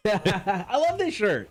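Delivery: laughing high and slow through the words. Real, not acted. Co-host laughs about his favourite shirt, laughing. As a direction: giggle it out, amused.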